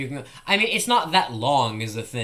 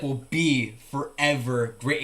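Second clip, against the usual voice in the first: slow, drawn-out mock speech line; imitating the speaker; slower than usual. Mimicking the speech he likes, slow and drawn out. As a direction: stretch it out like the grand speech. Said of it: "'Cause the way he goes".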